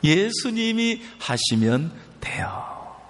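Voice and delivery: slow, whispered "예수님이 하시면 돼요". Shown as a demonstration. Preacher whispers the answer back to the congregation. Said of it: "누가 하시면 된다고요".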